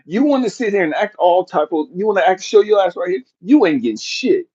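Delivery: harsh scolding, punching the insults; angry dad rant. Retold or imitated. Father chewing out his crying daughter, harsh and angry. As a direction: tear into the ungrateful kid.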